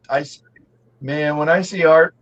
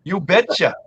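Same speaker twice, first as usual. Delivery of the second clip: imitated Wisconsin accent; Leroy; 2 semitones higher than usual. Ribbing Leroy with his catchphrase, mock Wisconsin accent. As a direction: repeat it in a mock Wisconsin twang. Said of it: "with his Wisconsin accent".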